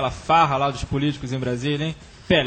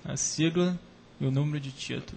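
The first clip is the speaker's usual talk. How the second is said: hushed, much softer; library whisper; 2 semitones lower, 9 dB quieter than usual. Real, not acted. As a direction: whisper so Antônio can't hear. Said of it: "fala baixo".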